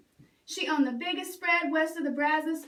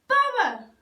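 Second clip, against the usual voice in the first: higher, loud bossy yell; shout; 10 semitones higher, 7 dB louder than usual. Acted. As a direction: holler his name across the house. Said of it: "shouted Milton".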